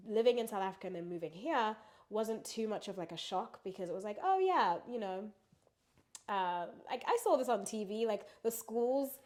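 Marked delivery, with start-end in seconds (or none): 4.2-8.1 mock surprise. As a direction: voice jumps up as if spotting something familiar. Mimicking own past reaction.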